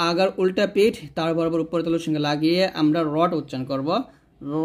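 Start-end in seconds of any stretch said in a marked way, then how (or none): 4.6-4.7 র long and thick, as a rounded "raw"; heavy ra. Shown as a demonstration. Teacher demonstrating the letter, thick and drawn out. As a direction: hold a full-mouthed র with the tongue tip curled up. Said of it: "এরকম".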